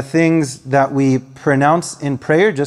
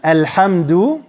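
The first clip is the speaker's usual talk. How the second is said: word-by-word recital; 2 semitones higher, much slower than usual. Shown as a demonstration. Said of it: "go through quickly Surah Fatiha".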